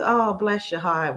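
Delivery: slow, sugary fake-sweet Southern put-down; sweet on the surface, a dig underneath; nasty nice Southern. Mocking a Southern woman's nasty nice blessing. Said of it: "the nasty nice thing".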